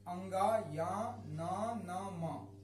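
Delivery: each nasal letter 'अंगा', 'या', 'ना', 'न', 'म' spoken slowly and separately; reciting nasal letters. Shown as a demonstration. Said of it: "किन किन अक्षरों?".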